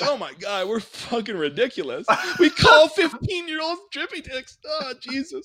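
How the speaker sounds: high mock outraged rant; mocking exclaim. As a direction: shout it, then drop off. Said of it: "I'm like".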